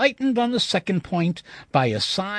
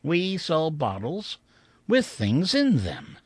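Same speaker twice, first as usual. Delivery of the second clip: slow, rising then falling; slow sign reading. Shown as a demonstration. Narrator repeating the sign to himself, slowly. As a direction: savor each word slowly. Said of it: "Just like that".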